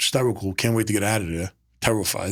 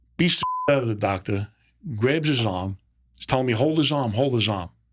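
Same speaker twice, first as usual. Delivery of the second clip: normal talking voice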